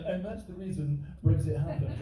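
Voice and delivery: mock clever comedian. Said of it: "an intelligent comedian that's gonna stand up here and be like".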